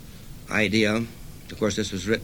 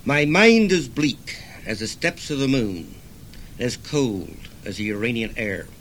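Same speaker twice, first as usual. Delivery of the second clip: poem reading. Acted. Reads own poem.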